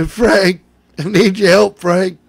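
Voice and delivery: mildly hammed-up holler to Frank; imitated screaming. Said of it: "he starts screaming about Frank".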